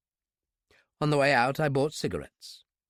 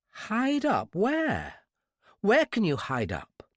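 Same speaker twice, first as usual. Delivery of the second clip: put-on high, anxious young woman's voice; a scared captive girl pressing him; frightened girl; 8 semitones higher, much slower than usual. Scared girl asks her kidnapper where they will hide.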